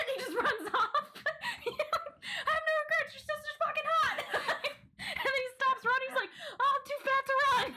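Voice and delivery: can barely get the words out for giggling; laughing hard. Real, not acted. Retelling a favourite show scene, cracking up.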